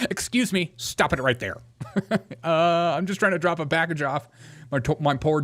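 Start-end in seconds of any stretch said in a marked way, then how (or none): 0.1-1.6 imitating again. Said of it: "soundbite for my Ring doorbell".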